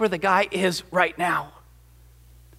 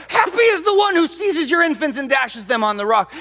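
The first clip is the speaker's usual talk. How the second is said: higher, the hatred still in the voice; hate-filled curse; 5 semitones higher than usual. Retold or imitated. The broken psalmist, losing it, curses Babylon with hatred. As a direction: spit out the verse with bitter hatred. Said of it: "He has this hatred that just oozes".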